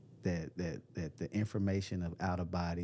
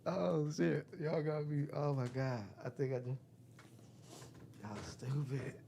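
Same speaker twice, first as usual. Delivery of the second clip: laughing surprise; 7 semitones higher than usual. Real, not acted. Caught out by chat prank.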